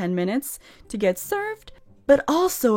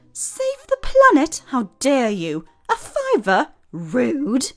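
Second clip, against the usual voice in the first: mock outrage; 5 semitones higher, 3 dB louder, slower than usual. Mocking the old man's outrage.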